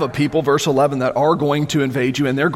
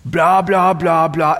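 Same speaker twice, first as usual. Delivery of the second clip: mock babbling; baby talk; slower than usual. Shown as a demonstration. Preacher mimicking baby babble, mock babbling. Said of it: "it is baby talk".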